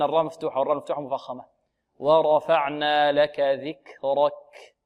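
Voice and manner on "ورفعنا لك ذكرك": slow recitation with breathy kaf; slow verse. Shown as a demonstration. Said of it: "مع همس الكاف". (ترتيل بطيء مع همس الكاف)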